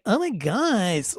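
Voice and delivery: slow, lilting Valley Girl mimicry; mock Valley Girl gush. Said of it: "California Valley Girl gays".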